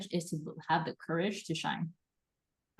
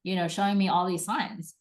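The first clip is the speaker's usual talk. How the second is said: gushing; 2 semitones higher, 4 dB louder than usual. Pretend. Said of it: "And you're like".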